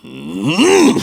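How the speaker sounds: rising throat-clearing hum; mock Japanese throat-clearing. Shown as a demonstration. Asked for an impression, caricatured Japanese throat-clearing. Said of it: "Japanese guy clearing his throat".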